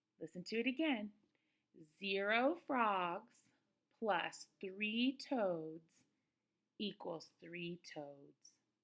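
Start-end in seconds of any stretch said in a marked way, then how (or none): 2.0-8.5 mildly sad, mournful voice. Speaker repeating a counting sentence for the listener, sad voice. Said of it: "I'm kind of making a sad voice".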